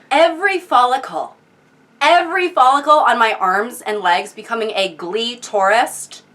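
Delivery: baffled, questioning echo; incredulous repeat. Acted. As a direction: quote it back in disbelief. Repeats the line just read, baffled.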